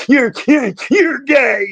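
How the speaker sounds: put-on very high, hysterical sobbing, stuttering. Retelling a phone call from a crying daughter: imitating hysterical crying. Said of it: "she is crying hysterical".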